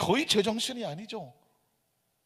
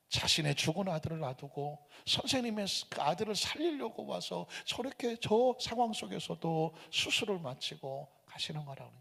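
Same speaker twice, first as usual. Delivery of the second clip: ordinary talk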